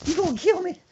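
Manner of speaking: high, gasping laugh-talk; grandma breathless laughing. Retold or imitated. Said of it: "she said".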